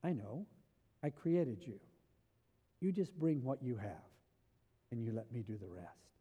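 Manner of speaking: gentle reassurance. Acted. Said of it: "And he says".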